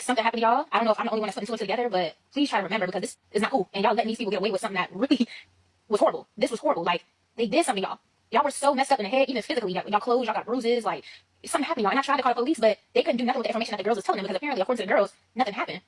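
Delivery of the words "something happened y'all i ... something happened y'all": urgent pleading. Retold or imitated. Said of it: "I'm just like".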